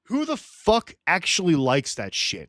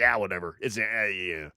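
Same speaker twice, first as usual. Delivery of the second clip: mock indifference; 6 semitones lower, 3 dB quieter than usual. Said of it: "people were like".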